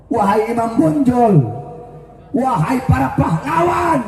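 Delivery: impassioned preacher's cry, calling each hero by name. Retold or imitated. Preacher calling out to national heroes, impassioned cry. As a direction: call out to the heroes as if they could hear. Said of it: "Saya, saya teriak".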